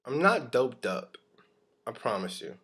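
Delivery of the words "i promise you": usual speaking voice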